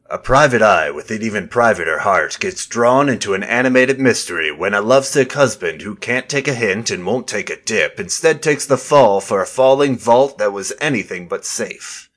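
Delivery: lightly hammed detective-novel read; a hint of hard-boiled narrator; pulp detective narration. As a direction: read it like a cheesy private-eye novel. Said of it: "in the style of one of those terrible, uh, detective novels".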